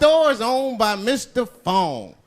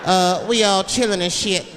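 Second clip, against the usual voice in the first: louder, mock hostage-video readout; hostage reading a letter; 3 dB louder than usual. Hostage reading a letter on the news, mock readout. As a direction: read out the statement, lightly acted. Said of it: "reading a hostage letter and shit".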